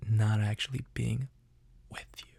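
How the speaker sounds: trailing off to almost nothing on the last words; mock heartbroken confession. Confessing love to someone he is next to, melodramatic. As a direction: let the plea die away.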